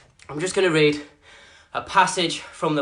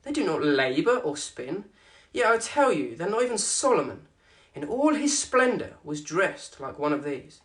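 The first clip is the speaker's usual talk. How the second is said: measured, slower Bible reading with lifted phrases; scripture reading. Acted. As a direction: read the passage like a gentle sermon. Reads scripture to workout group.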